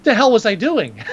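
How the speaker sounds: slow, loud outburst; mock shout. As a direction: shout it out slowly. Acting out character's outburst.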